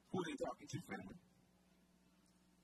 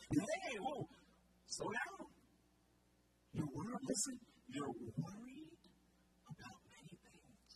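slowed, emphatic words; 13 semitones lower, slower than usual. Retold or imitated. Preacher voicing Jesus slowing Martha down, emphatic. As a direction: stress each word to slow her down. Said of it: "strong, emphatic statement".

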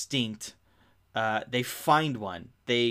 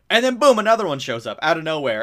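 excited; 6 semitones higher, 11 dB louder than usual. Real, not acted. Recapping the movie's big twist.

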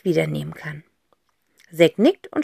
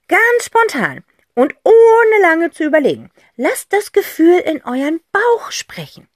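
higher, softening to a whisper; gentle aunt; 9 semitones higher, 4 dB louder than usual. Acted. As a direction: coax them gently. Aunt explains. (Tante Rotz sanft auffordernd)

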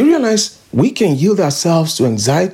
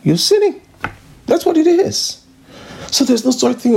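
emphatic rebuke; 8 semitones higher than usual. Real, not acted. Preacher confronting disobedience.

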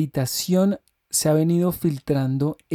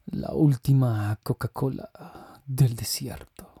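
sexy voice; 4 semitones lower, 3 dB quieter than usual. Pretend. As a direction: lower and soften into a sexy voice. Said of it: "Y ahí les va mi voz sexy".

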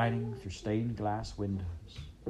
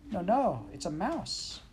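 high insistent princess; high, firm little princess; Princess Pea; 8 semitones higher than usual. A narrator's reading. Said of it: "said the P".

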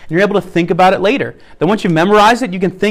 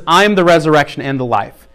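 I said with weight, rest of the line even; stress on I; 3 semitones lower than usual. Shown as a demonstration. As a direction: lean on the word I. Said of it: "just emphasize each one".

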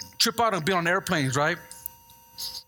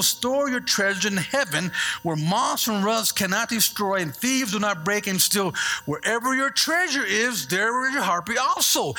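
slow, measured scripture reading. Acted. Preacher reading Matthew to his congregation, slow and measured. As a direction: let the verse land slowly.

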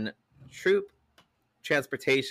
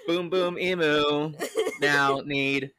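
laughing; 3 semitones higher, slower than usual. Pretend. Laughing through words.

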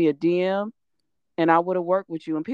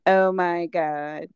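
mocking outrage; 3 semitones lower than usual. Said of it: "without somebody being like".

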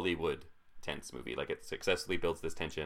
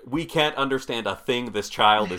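baffled; 5 semitones higher, 7 dB louder than usual. Retold or imitated. Parents baffled by the accent.

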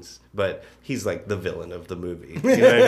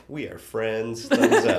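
breezy mock cheer; 3 semitones higher, 6 dB louder, slower than usual. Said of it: "they're just like".

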